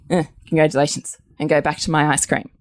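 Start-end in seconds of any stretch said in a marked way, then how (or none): 0.1-1.2 quick offhand eh, congratulations; dismissive congratulations. Retold or imitated. Wife mocking a careless reply to husband's big win. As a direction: brush it off fast and lose interest. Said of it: "And I say to you".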